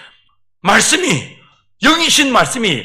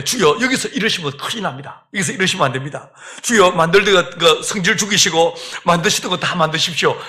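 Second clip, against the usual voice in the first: soothing; 4 semitones lower than usual. Acted. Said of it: "라고 주님을 달랩니다".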